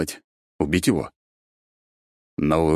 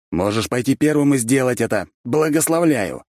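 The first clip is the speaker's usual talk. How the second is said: snapping; 8 semitones higher, 4 dB louder than usual. A narrator's reading. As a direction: snap sarcastically at the officer. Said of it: "рявкнул я".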